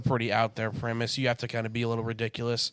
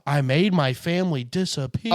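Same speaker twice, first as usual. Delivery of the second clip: flat mock movie quote; deliberately bad line reading; bad line delivery; 3 semitones higher, 4 dB louder, slower than usual. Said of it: "that is a bad delivery".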